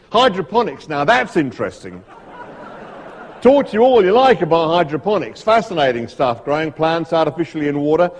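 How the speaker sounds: grumpy Australian expert, punching key words; amateur Australian accent, emphatic and irritable; Struan Sutherland, Australian accent. Acted. Snake expert bored of venom questions, grumbling in an Australian accent. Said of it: "my Australian accent isn't very good".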